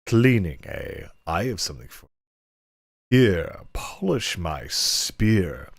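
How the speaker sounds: lightly voiced lecherous lord; suggestive master. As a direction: draw it out like a sleazy nobleman. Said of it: "inappropriate voice I can muster".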